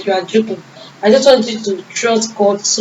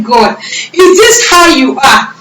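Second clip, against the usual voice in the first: tearful prayer; 4 semitones higher than usual. Retold or imitated. Running down the street, crying thanks to God. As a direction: pour it out to God through tears. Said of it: "I started crying".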